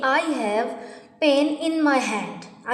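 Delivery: very slow, each word pulled apart; very slow first take. Shown as a demonstration. Teacher's first slow reading of the sentence, very slow. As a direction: drag the words out for the class. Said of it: "तो मैं बोलूँगी".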